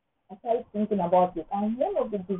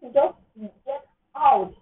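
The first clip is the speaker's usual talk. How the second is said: loud, high command to the devil; loud tearful get out; defiant; 6 semitones higher, 5 dB louder, slower than usual. Pretend. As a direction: drive the devil out, tearful and fierce. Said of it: "hold on and say".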